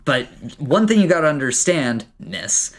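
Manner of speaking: friendly dwarf giving a firm warning; a touch of a dwarf lecturing a visitor. Acted. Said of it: "he's like".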